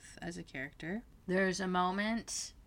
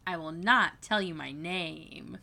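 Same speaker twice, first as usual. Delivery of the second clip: campy mock refusal, a bit louder; overacted gay caricature; 5 dB louder than usual. The speaker overacting the gay scene, lightly hammed-up caricature. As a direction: lightly overplay a camp caricature. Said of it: "when he overacts the gay scene".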